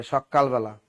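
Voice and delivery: সকালবেলা as sok-kal-bela; doubled consonant. Retold or imitated. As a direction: hold the k in সকালবেলা. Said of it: "এই উচ্চারণগুলো করে".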